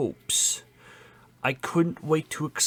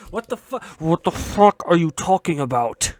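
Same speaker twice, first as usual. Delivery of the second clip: exasperated rant; 5 semitones higher, 8 dB louder than usual. Real, not acted. Ranting about character select screen.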